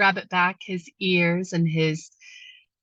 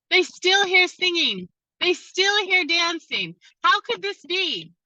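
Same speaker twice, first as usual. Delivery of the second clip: higher, wide-eyed disbelief that the singing goes on; astonished disbelief; 8 semitones higher than usual. Acted. Council stunned to hear Rabbit still singing, astonished. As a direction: marvel that it can still be heard.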